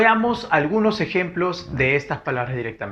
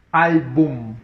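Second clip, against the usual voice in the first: syllable by syllable; 4 dB louder than usual. Shown as a demonstration. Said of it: "A ver".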